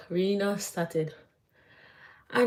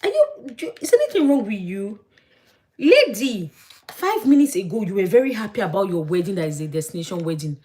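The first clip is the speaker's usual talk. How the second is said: exasperated rant; 3 semitones higher, 6 dB louder than usual. Retold or imitated. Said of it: "In my mind, I'm like".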